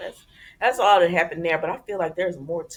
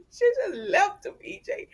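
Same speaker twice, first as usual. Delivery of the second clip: high whiny mock sob; fake-cry the excuse. Vlogger imitating Nicole pleading with EJ, mock crying.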